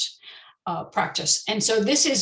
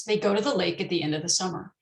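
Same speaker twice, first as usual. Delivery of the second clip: quick, function words swallowed and reduced; fast connected speech; faster than usual. Shown as a demonstration. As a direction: say it at natural dictation speed, weak words squeezed. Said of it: "this is my pet sentence".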